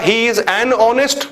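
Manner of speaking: very slow, lifting on honest; slow dictation. Shown as a demonstration. Teacher showing students a wrong sentence, very slow. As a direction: lay the wrong example out slowly. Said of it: "मैंने बोला".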